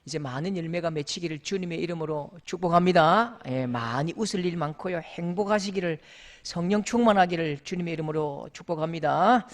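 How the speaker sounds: a pastor's gentle benediction; blessing prayer. Acted. Pastor blessing his congregation, gentle benediction.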